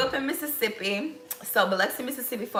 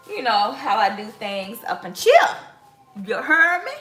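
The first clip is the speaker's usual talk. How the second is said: put-on New Orleans accent; 3 dB louder than usual. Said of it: "so that's my New Orleans accent".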